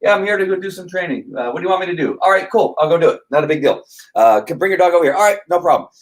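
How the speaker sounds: laid-back, no-fuss replies; mild, easygoing client. Acted. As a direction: go along with it casually. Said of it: "They're pretty mild".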